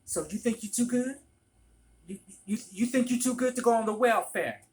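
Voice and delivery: high, loud, menacing mother voice; Moni impression. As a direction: sneer it like the mean mother. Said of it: "doing impersonations of Moni".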